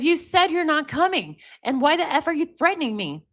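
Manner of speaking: retold protest, mildly outraged; imitated indignant retort. Girlfriend answering boyfriend's threat in read-out texts, indignant. Reading girlfriend's angry reply.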